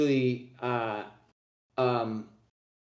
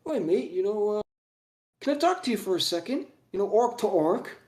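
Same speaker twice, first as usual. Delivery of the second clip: chummy cockney orc, higher; friendly orc-to-orc aside, pitched up; orc bloke; 7 semitones higher than usual. Acted. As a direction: sidle up matey. GM voices orc's cockney aside.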